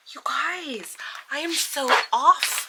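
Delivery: whispered aside to the viewers; embarrassed whisper. Real, not acted.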